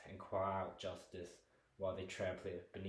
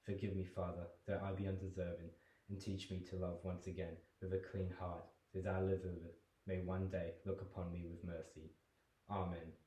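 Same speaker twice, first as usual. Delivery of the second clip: guilty prayer. Acted. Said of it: "His voice alters from guilt and sorrow".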